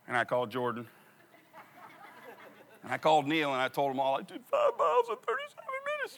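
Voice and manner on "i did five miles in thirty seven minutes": much higher, boastful announcement; proud bragging. Retold or imitated. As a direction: brag to the whole family. Bragging to family on phone.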